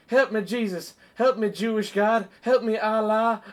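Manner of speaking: mock-frantic cries for help; Ricky Bobby. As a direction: beg every god in mock panic. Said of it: "Ricky Bobby".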